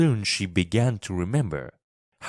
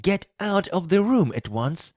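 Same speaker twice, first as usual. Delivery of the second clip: high-pitched, mildly raised shout; Colin shouting; 10 semitones higher than usual. A narrator's reading. Sick boy orders girl out of his room, shouting. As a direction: order them out in a high, cross voice. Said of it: "he shouted".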